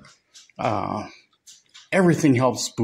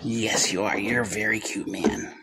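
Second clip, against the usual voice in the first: soft whisper; 4 semitones lower, 6 dB quieter than usual. Real, not acted. Cooing softly to a goat.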